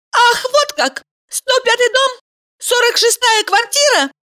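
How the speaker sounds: high furious woman's voice; angry woman. A narrator's reading. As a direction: Valeria snapping at Mikhail. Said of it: "закричала она".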